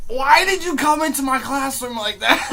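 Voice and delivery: loud, high, laughing demand; incredulous outburst. Retold or imitated. Asking the kid a year later at a party, incredulous. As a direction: demand it loudly through amused disbelief.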